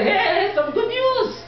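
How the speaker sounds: can barely hold the grin; retold giddy phone proposal; laughing excitement.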